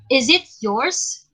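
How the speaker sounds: slow question, lifting on "yours"; "yours" drawn out and rising at the end; rising intonation. Shown as a demonstration. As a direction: let your voice climb on "yours". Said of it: "we can use in a rising intonation".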